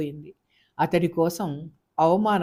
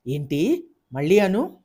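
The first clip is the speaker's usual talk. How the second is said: mild fury; 4 dB louder than usual. Acted. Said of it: "రౌద్రమూర్తి అయిందామె".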